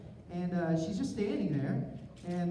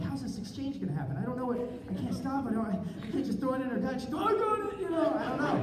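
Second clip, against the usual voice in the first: freaking out; 6 semitones higher, faster than usual. Retold or imitated. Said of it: "I'm freaking out".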